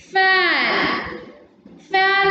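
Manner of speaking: "Fan" with the vowel stretched out; teacher drawing out "Fan"; long vowel demo. Shown as a demonstration. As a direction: hold the a in "Fan". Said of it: "ಅಂತ ಓದ್ತೀವಿ".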